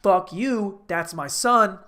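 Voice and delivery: defiant dad. Retold or imitated. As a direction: fire it back as an outraged dad. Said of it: "His dad's like".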